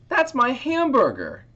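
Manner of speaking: put-on high, loud shout of a boy. Boy yelling at the fly over his hamburger, high loud shout. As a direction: yell it like an angry kid losing his lunch. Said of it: "A boy shouted".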